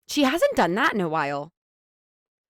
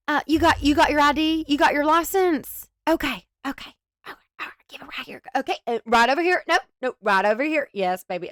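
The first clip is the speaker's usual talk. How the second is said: mock Southern accent; 5 semitones higher than usual. Commentator picturing the YouTuber checking IDs, hammed-up Southern accent. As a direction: usher voters like a chatty Southern poll worker, Southern accent. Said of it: "with a thick Southern accent".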